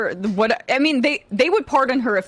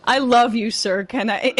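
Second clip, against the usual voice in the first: simpering; 3 semitones higher than usual. Retold or imitated. Mocking Blanche's devotion to Trump.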